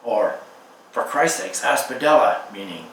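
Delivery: measured, unhurried poetry reading; poem reading. Acted. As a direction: read it as a poem, letting each image land.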